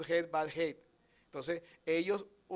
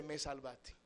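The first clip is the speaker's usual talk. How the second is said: grateful sigh; 4 semitones lower, 10 dB quieter than usual. Retold or imitated. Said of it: "y tú dices".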